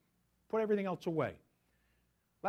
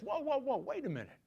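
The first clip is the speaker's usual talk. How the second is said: God calling out; 3 semitones lower than usual. Retold or imitated. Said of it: "He immediately says".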